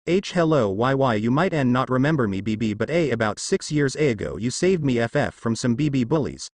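nervous, halting stutter. Acted. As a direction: trip over the first sounds shyly. Shy girl greeting her rescuer.

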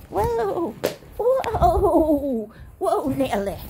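surprised laughing whoa. Real, not acted.

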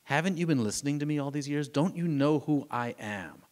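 pleading. Retold or imitated. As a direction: plead to be understood, voice lifting. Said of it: "almost seems like he's pleading with them".

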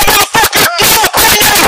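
real police command shout. Real, not acted. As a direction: bellow a furious order. Officer yells at hiding suspect.

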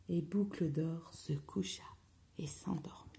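very soft, low, near whisper; hushed narration. A narrator's reading. Storyteller putting Goldilocks to sleep, hushed. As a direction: hush it down as she drifts off.

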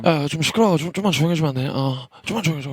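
mock just-woken complaint. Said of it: "자다가 깨가지고 눈이 안 떠져". (자다 깬 바비의 짜증 흉내)

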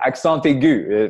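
"accent aigu" said the French way, drawn out; French lesson pronunciation of "accent aigu". Shown as a demonstration. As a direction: say "accent aigu" slowly in French, nasal first vowel in "accent". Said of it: "remember their French lesson".

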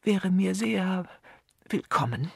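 slow, weary and drained; barely the strength to answer. A narrator's reading. Canon to his hostess, weary and slow. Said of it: "sagte Kanonikus Pennyfather mit matter Stimme".

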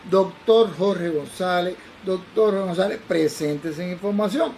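slow, insistent airport call, firmly projected. Retold or imitated. Airport paging the doctor a second time, imperative announcement. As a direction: page the doctor as an order, drawn out. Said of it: "era un poco más imperativo".

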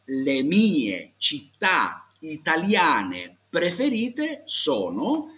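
very slow, drawn-out Italian, word by word; stretched, exaggeratedly clear teacher's diction; model answer. Shown as a demonstration. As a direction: lay out the sentence for learners to repeat. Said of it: "tú me puedes responder".

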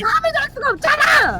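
very high, loud yell; shouting match. Pretend. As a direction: shriek the complaint. Yelling over noise.

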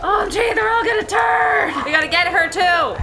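frantic, high-pitched alarm; panicked shouting. Acted. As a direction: yell it like everyone's turning. Zombies spreading, panicked shouting.

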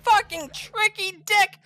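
high, loud laughter breaking into the words; real cackling outrage, easing off towards the end; laughing in disbelief. Real, not acted. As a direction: laugh helplessly while cursing the attacker. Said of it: "I don't know why I'm laughing".

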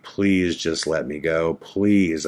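low retold plea to be released; begging. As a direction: plead softly, as if reliving the begging. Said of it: "like, begging them".

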